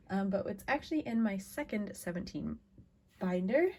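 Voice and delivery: talking through hiccups; words broken by hiccups. Real, not acted. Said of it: "I also have the hiccups right now".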